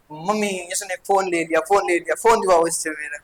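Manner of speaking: put-on child angry. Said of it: "कई बच्चे तो अभी कर रहे होंगे गुस्सा".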